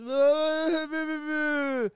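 high-pitched imitated wail; exaggerated crying noise, drawn out; mock bawling. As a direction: wail like a kid in tears. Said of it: "I am in tears".

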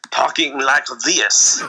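slow mock French-accented English; bad French accent. Podcaster mocking actors coached by a linguist, bad French accent. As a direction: drag it out in a hokey French accent. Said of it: "how to do French accents".

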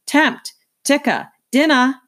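put-on high, loud little-girl call; a toddler shouting for her bug friends to come eat. A narrator's reading. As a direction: call the bugs to dinner like a small child. Toddler Boots calling the roaches.

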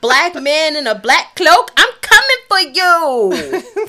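slow, loud menacing threat; slow, looming laughing menace; menacing stalker voice. Retold or imitated. Playing menacing stalker figure.

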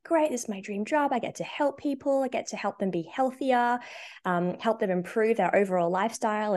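high, eager hopeful voice; excited. Retold or imitated. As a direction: voice of naive enthusiasm. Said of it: "And I was like".

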